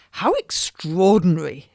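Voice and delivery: lightly voiced lady exclaiming; delighted lady. Lady hearing her friend echo the play, delighted exclaim.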